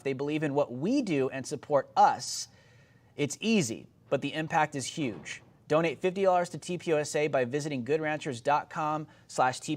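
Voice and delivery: a hint of a host's ad read. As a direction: slide into a steady pitch for the sponsor. Sponsor ad read.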